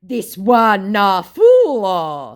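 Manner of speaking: high, slow Nigerian Pidgin jeer; mock the scammer in Nigerian Pidgin. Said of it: "going into pidgin".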